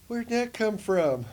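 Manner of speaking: slow astonished question; amazed question. Retold or imitated. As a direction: ask in stunned wonder. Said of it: "I'm like".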